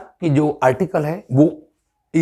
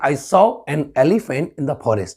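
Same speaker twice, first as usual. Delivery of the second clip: Indian English; much slower than usual. Shown as a demonstration. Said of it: "ये Indian accent है".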